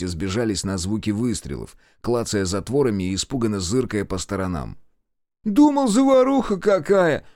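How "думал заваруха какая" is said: much higher, louder exclamation; high boastful cry; exclaiming. A narrator's reading. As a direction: swagger like a seasoned soldier. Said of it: "воскликнул Васёк".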